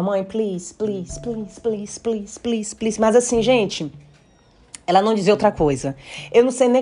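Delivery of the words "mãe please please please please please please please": put-on quiet, repetitive child's plea; imitating a little girl pleading nonstop; child begging. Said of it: "A Uinoa falava". (imitando uma criança implorando baixinho)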